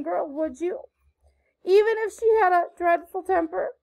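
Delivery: put-on high, impassioned pleading of a penitent girl; beseeching apology. A narrator's reading. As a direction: beg forgiveness with theatrical remorse. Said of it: "held out her hands beseechingly".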